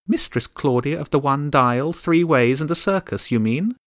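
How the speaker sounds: tiny haughty countess, aggrieved; high regal bird voice. Acted. Countess complaining about the gulls, high and bitter. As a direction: complain like an offended little queen.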